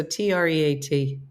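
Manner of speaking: T R E A T spelled letter by letter. Shown as a demonstration. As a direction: spell the word treat out so the dog won't know. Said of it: "Unless there was a".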